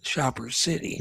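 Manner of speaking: "Shopper City" said while holding the tongue; garbled "Shopper City" with the tongue held; holding tongue with fingers. Shown as a demonstration. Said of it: "hold your tongue and say it".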